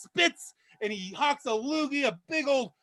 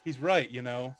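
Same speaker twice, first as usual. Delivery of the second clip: pig voice; 8 semitones lower than usual. Acted. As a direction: drop low and drag the punchline. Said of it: "the pig looks around and says".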